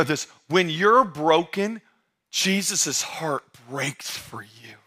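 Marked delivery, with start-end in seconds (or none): 2.3-4.7 whispered. Real, not acted. Tender appeal to the broken.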